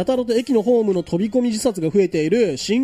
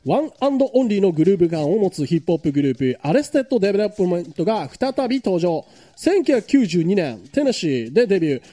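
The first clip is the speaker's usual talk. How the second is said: radio announcement of a tour; music news read. Acted. Host introducing a hip-hop group's Japan tour, news read.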